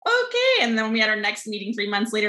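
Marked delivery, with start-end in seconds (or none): 0.1-0.5 imitating the team. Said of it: "And they're like".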